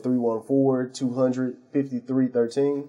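phone number run straight through quickly; said real fast, digits running together; rattled-off phone number. Real, not acted. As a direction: reel the digits off without stopping. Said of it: "you said that real fast".

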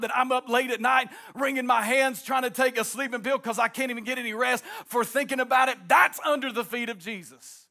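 rising, driving sermon cadence; preaching at full force. Acted. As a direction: preach it out over the organ. Preaching with music underneath.

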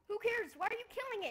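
high, loud laughing protest. Real, not acted. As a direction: laugh through the words. Laughs at friend killing golem.

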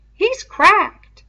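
talking through a mouthful; words round a bite of fruit; mouth full. Acted. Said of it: "gulped his mouth full".

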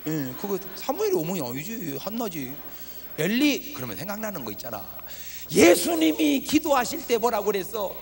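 ordinary talk

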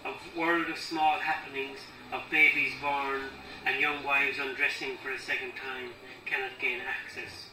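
measured recital in spaced phrases; poem reading. Acted. Poet reading about sorrow for parents, measured deliberate recital. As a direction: let each line of verse stand apart.

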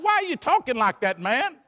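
high, quick worried doctor; the nervous doctor pleading; alarmed doctor. Retold or imitated. Scared doctor on the plane, high and quick.

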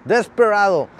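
Desperado said English-style; English-accented place name; English pronunciation. Shown as a demonstration. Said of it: "lo estoy diciendo en inglés".

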